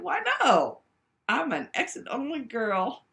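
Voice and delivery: high, loud sassy comeback; a loud, cheeky mock-indignant reply; sassy shout. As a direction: fire the retort back, loud and cheeky. Sassy retort to crude question.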